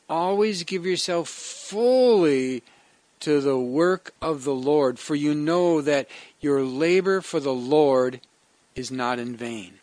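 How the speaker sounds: slow, solemn scripture reading; measured preacher's reading. Acted. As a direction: read the verse out with weight. Reads the scripture passage.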